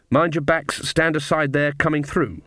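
monotone call through a crowd; amiable monotone. A narrator's reading. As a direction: keep it on one even, friendly note. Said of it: "was an amiable monotone at chest height".

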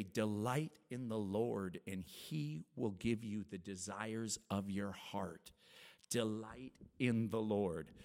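slow, weighty repeat of Delight in the Lord; preacher dwelling on the key verse; slow emphasis. Acted. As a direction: let each word land. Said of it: "repeats verse slowly".

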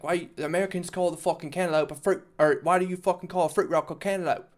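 a hint of baffled British accent; mock British guy. Retelling the British guy's cantaloupe question, lightly imitated British accent. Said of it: "a British guy saying".

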